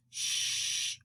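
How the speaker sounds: breathy hush, no voice; the others hushing the centipede in a whisper; whispered shush. A narrator's reading. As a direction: hush them without a sound. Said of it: "the others whispered".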